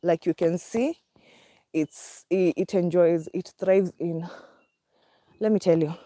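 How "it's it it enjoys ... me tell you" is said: out of breath. Real, not acted. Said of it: "I'm panting".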